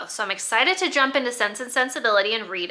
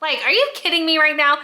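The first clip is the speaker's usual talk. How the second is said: amused disbelief; 3 semitones higher, much faster than usual. Real, not acted. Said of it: "I was like".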